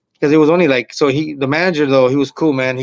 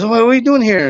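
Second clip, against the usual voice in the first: higher, louder puzzled question; retold surprise; 10 semitones higher, 5 dB louder than usual. Bar manager to an unexpected comic, imitated in high, louder surprise. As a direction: act out being caught off guard, pitched up.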